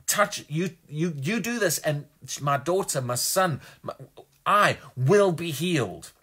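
acted bold faith, slowing firmly at the end; confident declaration. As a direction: declare healing with absolute confidence. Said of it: "absolute declarations of confidence".

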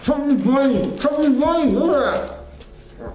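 words mushed by marshmallows; mouth full. Real, not acted. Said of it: "see how many marshmallows I can stuff in my face".

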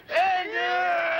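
strained shouting while pushing; drawn-out straining cry; straining in labor. Acted. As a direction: push the words out with effort. Pushing during delivery.

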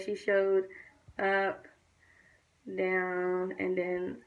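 toothbrush against front teeth; talking while brushing teeth. Real, not acted. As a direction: lips stretched around brush. Seen 2: toothbrush held against teeth, lips drawn back while speaking.

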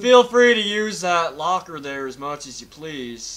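mock host voice.

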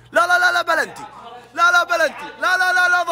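high, rapid repeated no's; heated protest. Real, not acted. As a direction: protest the penalty call hotly. Protesting a penalty call. (اعتراض حاد ومتحمس)

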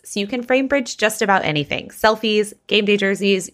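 upbeat, polished podcast sponsor read; friendly host-read commercial. Real, not acted. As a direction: read the sponsor copy cleanly and cheerfully. Reads a sponsor ad.

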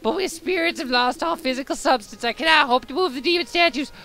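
high, hollow spirit voice, lamenting; ghost voice. Acted. Reads game spirit's lines in voice.

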